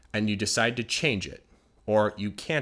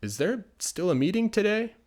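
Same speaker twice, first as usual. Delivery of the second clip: higher, bright casual question; casual coworker asking; 9 semitones higher than usual. Acted. Coworker pops into the office, asking in a lightly higher voice. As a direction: pop in and ask lightly. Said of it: "somebody comes into your office and says".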